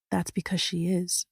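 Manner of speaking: soft near-whisper. A narrator's reading. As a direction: barely breathe the words. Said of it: "I whisper".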